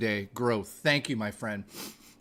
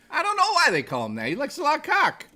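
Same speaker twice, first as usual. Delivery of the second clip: put-on Boston accent, very high-pitched and swooping; 12 semitones higher than usual. Retelling what a guy said while high on the couch, imitating a Boston accent. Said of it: "talking in a Boston accent".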